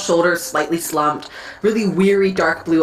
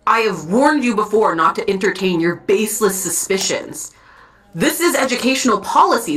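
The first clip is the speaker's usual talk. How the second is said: level stern tone. Acted. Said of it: "Speaking with a slightly more level tone".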